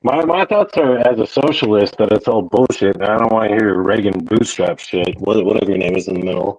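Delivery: choppy robotic connection; robotic glitchy audio. Real, not acted. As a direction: voice breaking up like a robot. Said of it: "You're, you're roboting".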